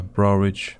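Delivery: ordinary talk, nothing marked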